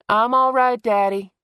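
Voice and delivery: loud high call upstairs. A narrator's reading. Sarah calling up the stairs to her father, loud. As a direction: shout reassurance up the stairs.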